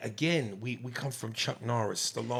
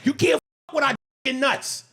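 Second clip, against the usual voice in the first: mock macho boast; 14 semitones higher, 7 dB louder than usual. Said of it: "patriotic pride".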